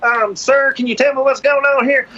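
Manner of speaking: high, careful cop voice; polite officer voice. Retold or imitated. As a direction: play a politely puzzled officer. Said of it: "they're like".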